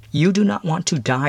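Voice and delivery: measured visitor addressing a condemned man; stern mysterious visitor. Acted.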